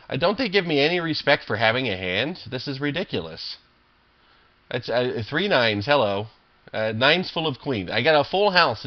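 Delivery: venting at bad opponents, rising and loud; real upset rant. Real, not acted. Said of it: "I just get really upset".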